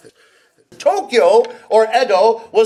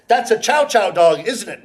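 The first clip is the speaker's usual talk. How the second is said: first speaker; 2 semitones lower than usual. Acted. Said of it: "a conversation like this".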